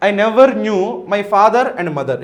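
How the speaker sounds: slow, careful English reading. Shown as a demonstration. Teacher reads option B slowly to the class. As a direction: lay every word out slowly.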